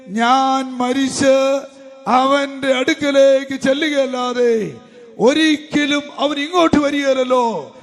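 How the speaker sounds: slow, drawn-out sermon proclamation; impassioned preaching. Retold or imitated. Preacher voicing David on his dead child, slow impassioned proclamation. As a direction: stretch each phrase out for the congregation.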